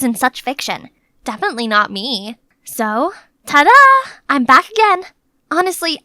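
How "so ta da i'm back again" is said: ta-da. Acted. Cheerful return to the castle.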